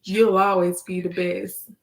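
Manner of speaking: measured spoken-word delivery; poem recitation. Acted. Reciting a love poem to mama, measured verse. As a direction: recite it line by line with held endings.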